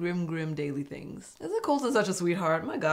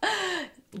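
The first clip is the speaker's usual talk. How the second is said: much higher, put-on prissy voice; mock Elise; 14 semitones higher than usual. Vlogger mimicking Elise's confessional, high mocking voice. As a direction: parody her sweet relief. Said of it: "She was just like".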